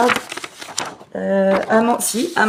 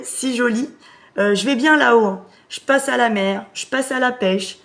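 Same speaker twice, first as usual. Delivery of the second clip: grandfather's intonation; 3 semitones higher than usual. Pretend. Medium relaying the grandfather's message in his intonation. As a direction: lightly voice the grandpa's loving lilt. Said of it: "il avait vraiment fait l'intonation qu'il faut que je te fasse".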